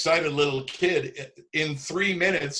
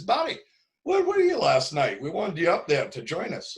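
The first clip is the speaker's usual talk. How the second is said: surprised; 5 semitones higher than usual. Retold or imitated. Daryl's voice, surprised question.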